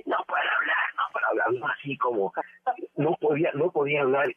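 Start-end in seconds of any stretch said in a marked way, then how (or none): 0.1-0.9 hoarse whisper. Retold or imitated. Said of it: "llegó Javier López mudo". 1.0-1.5 hoarse whisper. Retold or imitated. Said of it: "llegó Javier López mudo".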